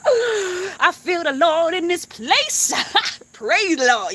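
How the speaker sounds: high, slow, tearful rapture; gasping rapture. Real, not acted. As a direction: breathe it out overwhelmed by the Lord. Gasps, feels God's presence.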